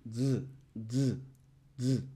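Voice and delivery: "z" as a short vibrating voiced th; voiced th buzz. Shown as a demonstration. Teacher repeats the bitten D for students, buzzing th. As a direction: bite the tongue lightly and buzz "z". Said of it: "como una vibración".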